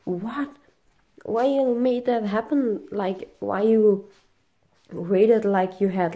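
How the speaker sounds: high, disbelieving questions; voicing his shocked disbelief; incredulous boyfriend. Boyfriend reacting to her bleeding nose, high and disbelieving. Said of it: "My boyfriend was like".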